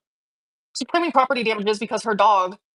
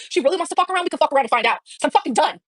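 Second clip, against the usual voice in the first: heated threat; 6 semitones higher, faster than usual. Real, not acted. Threatening her ex in anger.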